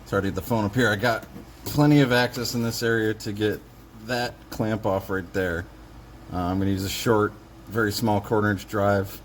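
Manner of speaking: talking while lying under a car; strained, reaching up from under the car. Real, not acted. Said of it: "so now I'm under the car".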